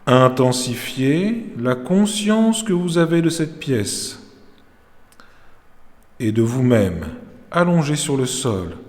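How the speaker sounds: measured Yoga Nidra instruction with long pauses; calm meditation teacher's voice; guided meditation. Real, not acted. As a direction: guide them into rest, phrase by phrase. Leads Yoga Nidra session.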